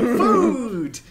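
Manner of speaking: high, loud eager yell; excited crowd cry. Retold or imitated. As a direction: drunk crowd cheering for food. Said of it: "being like".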